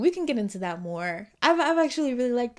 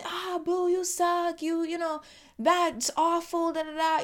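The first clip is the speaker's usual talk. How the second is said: high-pitched jeer without real volume; mock heckling; 7 semitones higher than usual. Speaker imitating spectators in the stands, mock screaming heckle. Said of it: "We screaming and".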